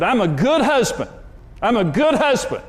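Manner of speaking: mock angry husband yelling in the car; retold yelling. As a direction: insist on it like you're losing the argument. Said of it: "I was yelling at Karen".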